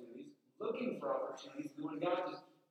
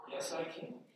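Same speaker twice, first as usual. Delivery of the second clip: whispered yes. Pretend. Eager whispered answer to coworker.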